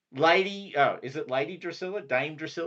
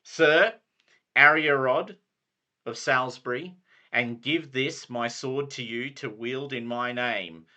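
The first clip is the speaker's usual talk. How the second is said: Sir Brastius; 7 dB louder than usual. Acted. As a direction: command them to kneel. Knighting ceremony.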